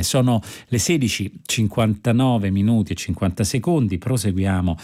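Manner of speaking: bright, measured continuity announcement; radio announcer. Acted. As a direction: introduce the next episode like a radio host. Host switches to programme announcement.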